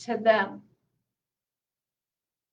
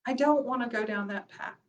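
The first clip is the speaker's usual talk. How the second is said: quieter, firm "I don't wanna go down that path"; softer; 5 dB quieter than usual. Shown as a demonstration. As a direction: settle it down, softly and firmly.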